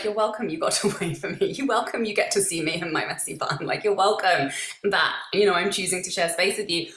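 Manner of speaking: playful, unapologetic self-assurance; you're-welcome energy. Acted. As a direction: act as if your company is a favor to them. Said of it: "opposing energy is just like".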